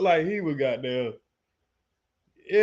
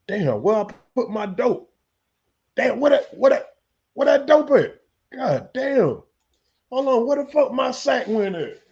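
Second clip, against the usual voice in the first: higher and louder, mock panic; hammed-up panic over a lost bag; frantic searching; 5 semitones higher, 3 dB louder than usual. Cook discovering his dope is missing, mock frantic panic.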